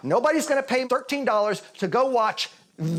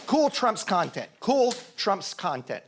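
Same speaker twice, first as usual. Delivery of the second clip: slow; slower than usual. Shown as a demonstration. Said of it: "Maybe we should try cool".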